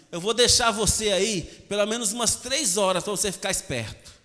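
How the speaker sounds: emphatic, punchy mock telling-off; stern mother. Mother puts son in the discipline corner, stern telling-off. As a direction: lay down the punishment firmly. Mother angrily announces the punishment.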